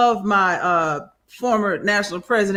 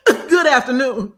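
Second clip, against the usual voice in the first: imitating a pointed greeting; 2 semitones higher than usual. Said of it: "you can tell by the intonation".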